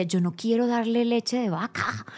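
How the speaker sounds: imitated crying complaint, lightly done; retold tearful protest. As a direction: act out a weepy refusal. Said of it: "Y yo lloraba, yo decía".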